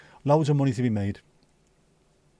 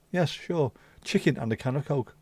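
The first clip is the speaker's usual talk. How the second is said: Scouse on request; 2 semitones higher than usual. Shown as a demonstration. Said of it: "I've started doing it for them now".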